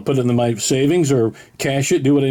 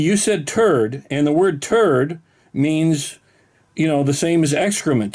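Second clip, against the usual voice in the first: very slow, spelling-it-out delivery; deliberately slow, patient mock lecture; slow explaining; slower than usual. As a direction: explain it slowly as if to a child.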